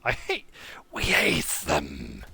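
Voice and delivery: low, slow stone monster voice; golem voice. Pretend. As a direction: drag it out deep like a rock golem. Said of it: "I can do a golem voice".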